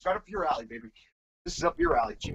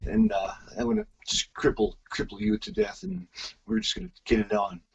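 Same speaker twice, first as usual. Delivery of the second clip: lightly voiced wrestler, halting and casual; Bret Hart. Guest taking his turn at the wrestler impression, lightly voiced. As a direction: loose attempt at a wrestler's promo. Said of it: "Well, let me try".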